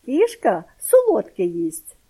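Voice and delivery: put-on loud, high excited boy calling; excited shout. A narrator's reading. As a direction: shout to everyone, delighted. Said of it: "гукнув Петрик". (гукає захоплено)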